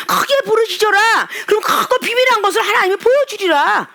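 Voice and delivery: high, crying scripture cry; tearful proclamation. Real, not acted. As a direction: proclaim it through tears. Quoting scripture with tears. (울먹이며 성경을 외치듯)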